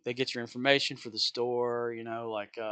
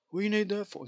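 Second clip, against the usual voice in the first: baffled customer; 9 semitones higher than usual. Retold or imitated. Customer questioning ID need.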